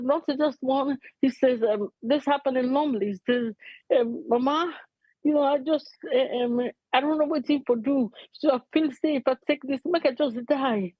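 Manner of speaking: real emotion while relaying someone's plea; emotional. Real, not acted. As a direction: overcome while passing on their words. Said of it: "I'm sorry if I'm being so emotional".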